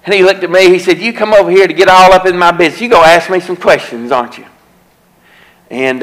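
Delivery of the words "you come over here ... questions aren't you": hint of a combative voice, a little faster and higher; confrontational drunk. Drunk man challenging the preacher who came over, lightly combative. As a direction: push back at the preacher like a suspicious drunk.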